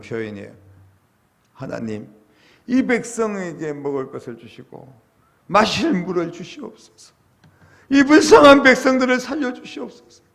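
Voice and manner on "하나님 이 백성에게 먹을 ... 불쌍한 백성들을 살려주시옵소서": pleading prayer building from restrained to a high, loud cry; earnest prayer. Acted. Moses begging God to save the thirsty people, earnest prayer. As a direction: implore with mounting urgency, crying out by the end. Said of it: "하나님께 간절하게 기도했다는".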